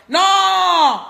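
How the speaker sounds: a sudden high, loud "Non!"; sharp indignant shout. Real, not acted. A woman ranting live to Gabonese viewers, shouting "Non!". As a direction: shout "Non!" as a flat refusal.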